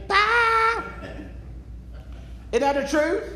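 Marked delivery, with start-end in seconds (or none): 0.1-0.8 high, breezy goodbye, dismissing her; quick brush-off. Retold or imitated. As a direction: shut the flirt down lightly. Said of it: "makes him say".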